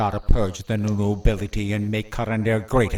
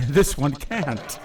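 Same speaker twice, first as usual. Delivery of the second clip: laughing gloat; 4 semitones higher, slower than usual. Acted. Villain gloats over helpless victim.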